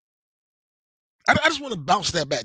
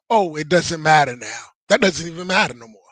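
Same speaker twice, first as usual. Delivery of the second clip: dismissive; 2 semitones lower, 4 dB louder than usual. Retold or imitated. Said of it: "asking him a question".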